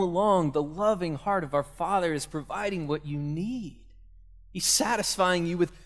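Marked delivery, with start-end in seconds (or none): none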